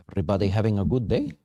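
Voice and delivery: quick, breezy mock Jamaican accent. Host greeting viewers in a light put-on Jamaican accent. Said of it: "That's my Jamaican accent".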